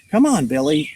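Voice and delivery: a light character call. Acted. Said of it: "Mitch called".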